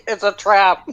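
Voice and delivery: very high shrill granny warning; high old lady voice. Pretend. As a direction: squeal the warning like a tiny crone. Player voices old lady twist.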